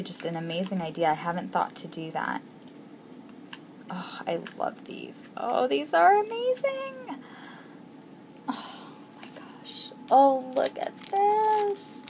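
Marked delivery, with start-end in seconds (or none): 3.9-5.2 whispered, much softer; awed whisper. Real, not acted. Awe at charms. 5.4-7.2 much higher, gushing; excited squeal. Real, not acted. Awe at charms. 8.5-9.9 whispered, much softer; awed whisper. Real, not acted. Awe at charms. 10.1-12.0 much higher, slow and drawn out; excited squeal. Real, not acted. Awe at charms.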